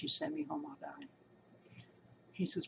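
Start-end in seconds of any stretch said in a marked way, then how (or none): 0.0-1.1 softer, fading retold plea; a touch of the husband's crying; quiet, falling plea retold by his wife; retelling his tears. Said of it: "he broke out crying".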